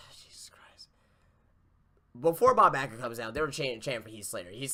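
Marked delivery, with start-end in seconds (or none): 0.1-0.9 unvoiced whisper of despair; whispered exasperation. Real, not acted. Host whispering to himself about the bad segment, exasperated. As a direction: breathe it out under your breath. Sighs then mutters in disbelief.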